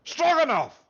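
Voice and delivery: high, loud, hammed-up Russian correction; hammed-up Russian squeal. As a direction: blurt it in a squeaky fake Russian voice.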